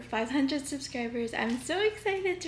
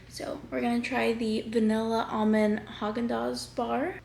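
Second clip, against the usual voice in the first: whispering. Real, not acted. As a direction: whisper it like a secret. About to taste ice cream.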